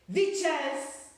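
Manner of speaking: slow, high, loud harsh witch command; witch shouting. A narrator's reading. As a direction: rasp out the order to the whole room. Grand High Witch addresses.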